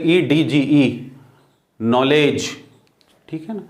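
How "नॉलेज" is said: नॉलेज with no d sound before the j; silent D. Shown as a demonstration. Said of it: "डी का sound डा वहाँ पे नहीं पढ़ते". (नॉलेज में डी साइलेंट)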